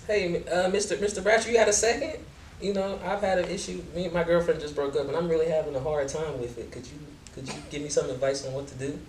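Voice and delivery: student asking for advice. Acted. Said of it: "give me the scenario one time".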